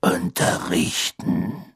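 low, very drawn-out one-word answer; slow, unbothered character voice; nonchalant old teacher. Acted. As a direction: stretch it out slowly and casually.

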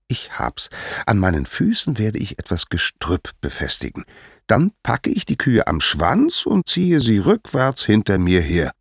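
a hint of a little schemer plotting aloud; lightly voiced young Hermes, scheming. Hermes works out his plan.

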